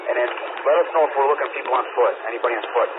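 crackly police radio transmission; talking through a handheld radio; over a radio. Real, not acted. Officer reporting over radio.

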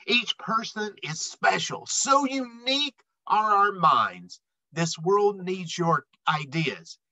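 lively rhyming read-aloud; storybook voice for kids; reading to children. A narrator's reading. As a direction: read the rhymes to a young audience. Reads picture book aloud.

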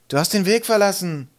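high-pitched accusing cry; calling out. A narrator's reading. A troll accusing Twig, calling out. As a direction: call out an accusation. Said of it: "rief einer".

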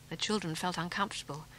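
usual speaking voice

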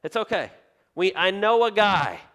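a queen hurriedly calming the king; soothing queen. Retold or imitated. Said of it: "she goes".

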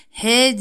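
"H" said as a light "he"; light Arabic "he" for "H"; thin he. Shown as a demonstration. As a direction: say "H" with a thin e vowel. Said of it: "H diye okunur".

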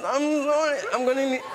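high, laughing mock sob; fake sobbing through laughter. Actor faking tears to escape an audition, laughing high. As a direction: ham up a tearful excuse, cracking up. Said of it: "I made myself cry and I went".

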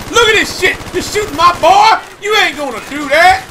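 high, loud mock Frank Leone rant; Frank Leone impression. To the viewers, quoting Frank Leone in a high loud rant. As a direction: belt it out as a shouting movie dad. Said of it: "Frank Leone, you remember that?".

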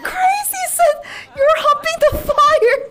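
reading a funny comment, still laughing; laughing read of chat. Real, not acted.

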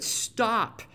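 sharp high Stop; exclaimed. Retold or imitated. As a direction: bark Stop to halt him. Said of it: "exclaimed Samuel".

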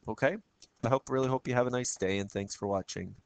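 hoarse, croaky voice; frog voice. Real, not acted. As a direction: talk through a frog in the throat. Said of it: "my apologies for my frog voice".

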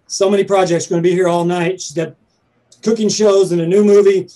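breathless rush of words; running out of air mid-list; out of breath. Real, not acted. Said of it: "I'm out of breath".

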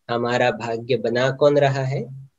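asked softly, as if to oneself. Shown as a demonstration. Teacher asks listeners to question themselves, quietly. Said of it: "अपने आप से पूछो".

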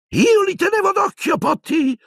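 very high, indignant squawk; indignant poltergeist. Acted. Peeves protests to Harry over the brawl, indignant and high. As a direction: protest in a piping, affronted voice. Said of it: "esclamò indignato".

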